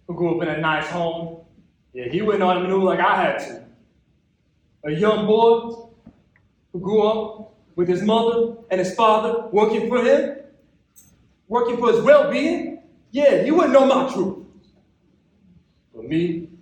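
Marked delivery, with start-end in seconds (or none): 4.8-14.4 bitter grievance. Acted. Poem builds in bitter grievance.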